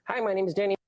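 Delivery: a lightly voiced Danny imitation; playful imitation of a friend; teasing impression. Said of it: "he always teases me".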